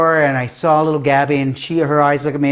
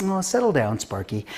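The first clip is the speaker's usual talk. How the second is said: calm and cool; 5 dB quieter than usual. Retold or imitated. Principal settling an excited new teacher, calm and cool. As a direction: coolly talk someone down. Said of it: "she's so calm and cool".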